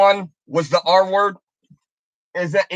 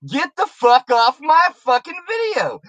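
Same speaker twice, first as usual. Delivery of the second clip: angry shout; 6 semitones higher than usual. Real, not acted. Telling a critic to leave, furious shout. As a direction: yell him off your channel. Yelling at critic about cussing.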